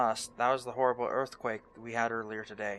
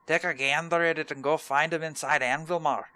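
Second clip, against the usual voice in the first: higher, hearty mock Scottish dwarf voice; hammed Scottish dwarf; 4 semitones higher, 4 dB louder than usual. Streamer reading dwarf NPC quest text in hearty mock Scottish. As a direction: play the friendly dwarf questgiver with a put-on brogue.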